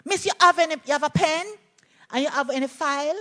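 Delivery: put-on high, eager child's voice asking his teacher; little boy asking. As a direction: ask like an eleven-year-old boy tugging at his teacher. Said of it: "this little boy kept asking me".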